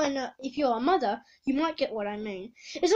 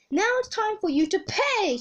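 higher, menacing villain cry; villain scream; 7 semitones higher than usual. Acted. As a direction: threaten with a rising mock shout. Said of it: "screamed Voice Sweeper".

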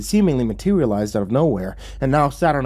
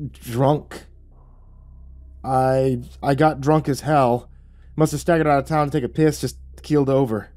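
a hint of bumbling fool; hesitant start, then a dim excuse; playing the simpleton; 4 semitones higher than usual. Narrator lying to lawman, mildly simple-minded act. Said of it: "trying hard to play the simpleton".

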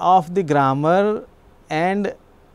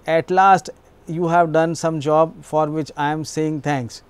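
mildly sarcastic, stress on "last", dropping on "thanks"; lightly mock the late job with dry sarcasm. Shown as a demonstration. Teacher demos sarcastic thanks for a late job, dry. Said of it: "I can be sarcastic also".

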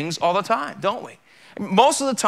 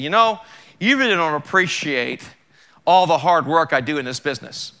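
mock irritation; 3 dB louder than usual. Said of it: "imagine I'm irritated with".

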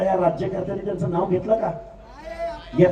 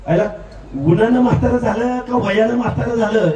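mocking laughing jab; 4 dB louder than usual. Real, not acted. Taunting a rival at rally.

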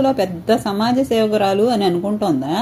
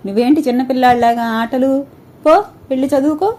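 scolding mother; 3 semitones higher than usual. Acted. Mother scolds son to study.

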